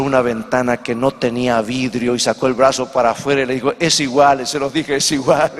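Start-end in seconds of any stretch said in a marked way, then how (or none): 3.8-4.4 louder, lightly put-on Italian accent. Italian with his arm out the empty window, Italian accent. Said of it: "en su mezcla de italiano". 5.0-5.5 light mock Italian accent; a punchline with a touch of Italian accent. Italian delivers the joke's punchline to passengers, Italian accent. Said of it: "en su mezcla de italiano".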